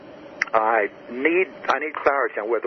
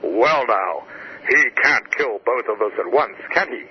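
mock booming voice. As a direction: play the big truck guy, booming it out. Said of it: "says in a booming voice".

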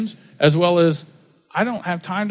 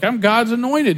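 lightly mocked preacher, pitched up; self-important pastor; 5 semitones higher than usual. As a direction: imitate a pastor full of himself, higher voice.

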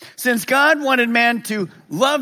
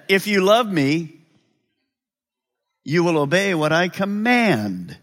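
slower, sincere reading of Jesus; earnest correct quote. Shown as a demonstration. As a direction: pastor giving the true words sincerely, slowly. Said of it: "Here's what he said".

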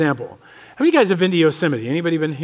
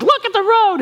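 much higher, louder sharp warning to the driver; wife's warning; 12 semitones higher, 3 dB louder than usual. Retold or imitated. Wife warns her distracted husband at the wheel, sharp and high. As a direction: snap it like a nervous wife in the passenger seat.

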